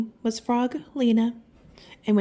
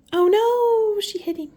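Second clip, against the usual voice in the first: high, loud startled oh no; alarmed oh no; 10 semitones higher, 5 dB louder than usual. Real, not acted. Reader alarmed as the ball hits Froggy, high and loud.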